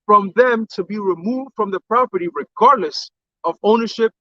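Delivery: slow, deliberate read of an official notice; reading aloud. Real, not acted. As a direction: read it out word by word, slowly. Reads a statement aloud.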